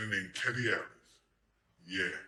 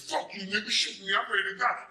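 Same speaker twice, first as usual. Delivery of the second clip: high, loud fake bravado; mock tough defiance; 10 semitones higher, 5 dB louder than usual. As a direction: act the hard man daring him. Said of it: "I wasn't like".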